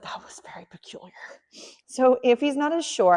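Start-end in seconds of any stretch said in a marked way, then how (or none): 0.0-1.1 voicing the puppy.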